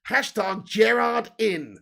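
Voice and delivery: mock slow read. Reading chat in mock voice.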